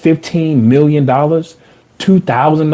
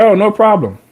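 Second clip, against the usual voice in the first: higher-pitched imitation British-Australian accent; 6 semitones higher than usual. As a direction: lightly mimic an Australian man's accent. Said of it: "Had, like, a British Australian accent".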